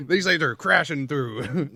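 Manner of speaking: laughing. Pretend. Joking, laughing.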